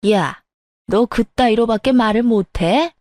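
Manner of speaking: understated acted anger; lightly voiced indignant elder; angry mother-in-law. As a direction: scold with a touch of outrage. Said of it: "시모가 미친 듯이 화를 내더군요".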